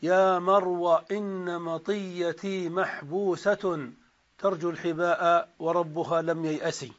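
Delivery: slow measured verse recital; إلقاء شعري بطيء; poem recital. Acted. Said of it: "قال الشاعر".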